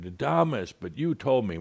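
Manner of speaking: high mock exasperation; a hint of an exasperated woman; exasperated caller. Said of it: "all exasperated".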